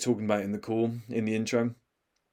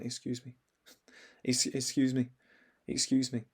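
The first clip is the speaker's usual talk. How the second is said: timid, barely audible excuse me; meek, faltering little plea; too quiet; 7 dB quieter than usual. Retold or imitated. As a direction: softly imitate someone afraid to interrupt. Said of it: "If you're too quiet".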